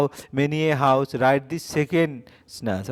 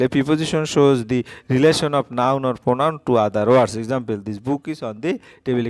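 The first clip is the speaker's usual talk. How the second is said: slow dictation; much slower than usual. Acted. Dictating definition to students.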